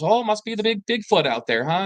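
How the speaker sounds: high, amused mock voice of a teasing grandfather; teasing grandpa. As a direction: lightly play the grandpa ribbing the kids. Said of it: "And he goes".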